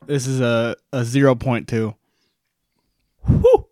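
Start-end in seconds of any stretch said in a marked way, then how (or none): 3.2-3.7 high sharp whew from spice; burning exhale whew. Real, not acted. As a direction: blow out the heat. Reacting to spicy burn.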